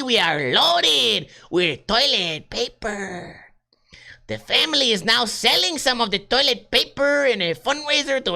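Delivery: high, slow, drawn-out comic voice; exaggerated put-on accent. Podcaster hams up the toilet paper story, high drawn-out voice. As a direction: stretch the stressed words out, pitched high.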